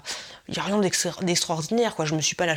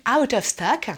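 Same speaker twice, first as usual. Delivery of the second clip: "out of stock" drawn out, American-style; mock American accent; 6 semitones higher, 4 dB louder, slower than usual. YouTubers' word before translating it, mock American accent. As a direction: stretch it slowly in a caricature American accent. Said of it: "mon vrai anglais".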